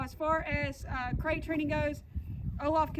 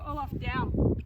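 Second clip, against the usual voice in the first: dog command; 5 dB louder, slower than usual. Shown as a demonstration. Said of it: "in your hand and go".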